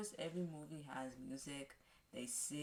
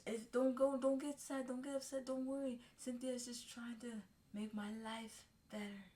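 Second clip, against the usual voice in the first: put-on high, louder pleading girl's voice; 8 semitones higher, 4 dB louder than usual. Girl in the wheelchair begging her boyfriend not to worry, high and pleading. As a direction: beg him not to worry, voice pitched high.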